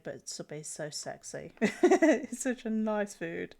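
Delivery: slow, mock-seductive; mock sultry. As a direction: ham up a sexy voice about food. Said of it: "I'm gonna make it weird".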